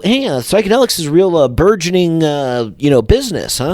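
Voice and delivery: lightly mocked know-nothing networker; corny businessman. Clueless networker pitching psychedelics, lightly mocked corny voice. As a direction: imitate a clueless business type feeling his way. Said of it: "corny people that are like".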